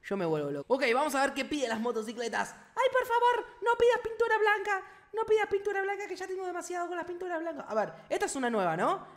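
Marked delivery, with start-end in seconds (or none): 2.5-7.6 very high squeaky begging voice; hammed-up high-pitched plea; mock pleading. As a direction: beg in a tiny high voice. Begs the game not to ask.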